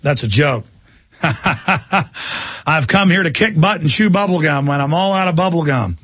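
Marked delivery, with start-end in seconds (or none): 1.2-6.0 movie hero quote. Pretend. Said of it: "comic relief".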